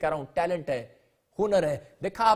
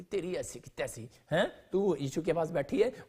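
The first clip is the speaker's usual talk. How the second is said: seething mutter; 4 semitones lower, 6 dB quieter than usual. Retold or imitated. Martha seething at her sister.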